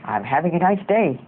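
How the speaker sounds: mildly angry demo voice; a half-hearted attempt at sounding angry. Shown as a demonstration. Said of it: "say it in an angry voice".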